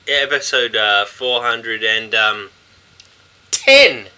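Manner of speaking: PE teacher voice. Real, not acted. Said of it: "Why do you sound like a P E teacher for?".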